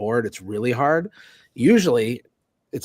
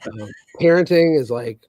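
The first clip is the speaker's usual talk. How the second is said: dry sarcastic deadpan; sarcastic, saying the opposite. Real, not acted. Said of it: "I feel like you're being sarcastic".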